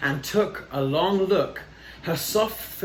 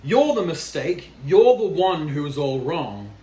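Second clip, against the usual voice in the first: chasing shout; 4 dB louder than usual. Acted. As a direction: shoo him out loudly. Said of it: "they cried".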